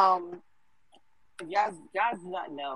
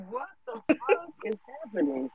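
mock freak-out; 7 semitones higher than usual. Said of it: "I'm like".

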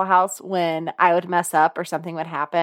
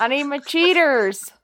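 higher teasing echo; mimicking co-host; 5 semitones higher than usual. Host echoing her co-host's outburst, a hint of mimicry. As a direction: lightly mimic her exclamation.

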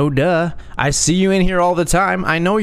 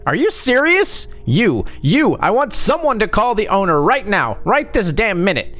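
furious screech; 7 semitones higher than usual. A narrator's reading. Customer furious demanding owner.

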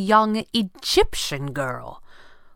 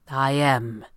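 coldly; 2 semitones lower than usual. Acted. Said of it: "Fenwick said coldly".

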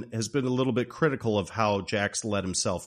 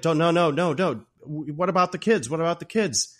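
higher-pitched hammed-up pleading; mock freaking out; 6 semitones higher, 3 dB louder than usual. Jack begging as wife pulls gun, mock panic. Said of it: "Jack's freaking out".

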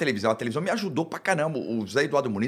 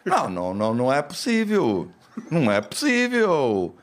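put-on slow, drawn-out exasperation in a Portugal accent; hammed-up disbelieving Portuguese local, European accent; mock Portuguese accent; slower than usual. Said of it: "Ele faz igualzinho?".

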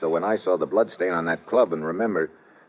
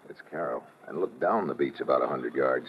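much softer watchful murmur; hushed; 7 dB quieter than usual. Acted. Steve points out the beach to Lord Byron, hushed. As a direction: hold your voice down while watching.

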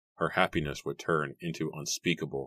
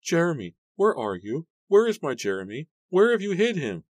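high-pitched desperate questioning; distraught, high and pleading; frantic cry; 11 semitones higher, 5 dB louder than usual. A narrator's reading. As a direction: search for him in rising panic. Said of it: "Mary cried, her eyes darting frantically".

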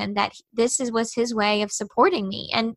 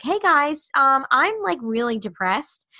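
higher, sing-out pretend confession; imagined awkward public announcement; mock announcement; 4 semitones higher than usual. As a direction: announce it to everyone as if casual news.

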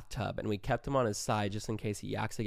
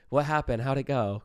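anxious questions; 2 semitones higher, 4 dB louder than usual. Retold or imitated. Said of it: "'Cause I'm freaking out".

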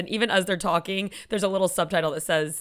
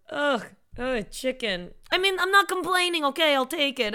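put-on martyr old man; 5 semitones higher than usual. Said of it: "martyr, just typical Jewish".

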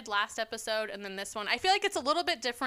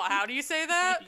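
higher mock-quizzing voice; mimicking challenge; 5 semitones higher than usual. Host mimics Tim nagging about words, mocking higher voice. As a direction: tease him with a raised imitation. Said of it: "He's all".

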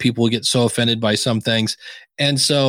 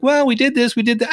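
higher, hammed-up protesting panelist; mock panelist pushing back at a podcast summit; mimicking the guy; 9 semitones higher than usual. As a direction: play the flustered guy defending himself.

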